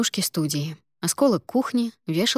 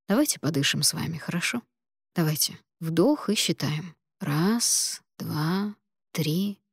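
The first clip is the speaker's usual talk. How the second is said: calming; 3 dB quieter than usual. Acted. Doctor calms patient breathing.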